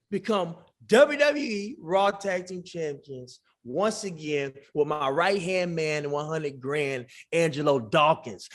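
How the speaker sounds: slow, drawn-out title announcement; wrestling promo proclamation. Pretend. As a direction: proclaim it grandly, stretching each phrase.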